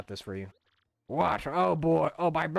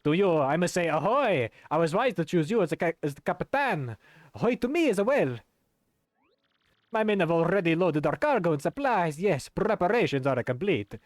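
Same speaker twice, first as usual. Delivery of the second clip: hammed-up sailor; 3 semitones higher, 4 dB louder than usual. Voicing game characters aloud.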